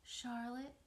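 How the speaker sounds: in a whisper. Acted. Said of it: "he said in a whisper".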